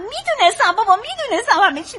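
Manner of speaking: high, swooping, gleeful cry; excited relief, pitch leaping up and down; jubilant I-told-you-so. Acted. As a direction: crow with delight at good news. Wife exults at loan news.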